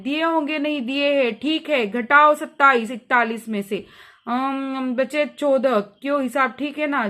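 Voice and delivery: a strict employer settling accounts; stern voice. Acted. Master docking the governess's pay, stern. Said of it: "गृहस्वामी कडे स्वर में".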